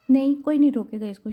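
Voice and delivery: lightly voiced outburst forbidding anyone to stop her; husband cuts in with a half-voiced yell; sudden shout. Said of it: "شاہ ایک دم چیخا".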